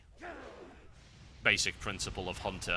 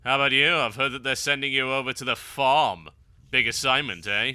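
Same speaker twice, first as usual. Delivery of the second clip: louder, lightly sarcastic read-out; 3 semitones higher, 6 dB louder than usual. Acted. Player reading a character's line about the farm assignment, sarcastic. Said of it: "read that in a sarcastic accent".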